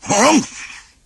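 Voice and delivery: high, sulky huff; grumpy humph. A narrator's reading. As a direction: huff your displeasure. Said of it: "Donald glowered".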